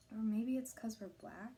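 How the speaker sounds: "black" lifted into a questioning rise; slow, tentative question, doubting what she knows, rising on "black". A narrator's reading. Daughter doubting what she knew was true, said like a question. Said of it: "she said it like a question".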